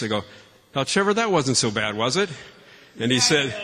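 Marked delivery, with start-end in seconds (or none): 0.7-2.3 lightly put-on stage voice; a touch of projecting for the room. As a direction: say it for everyone to hear. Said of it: "with a stage voice".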